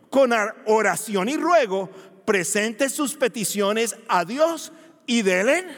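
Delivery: slow, deliberate reading of the verse; scripture reading. Shown as a demonstration. Preacher reading Philippians to congregation, slow and solemn. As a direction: read the verse slowly, weighing each word. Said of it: "Así dice la vacuna".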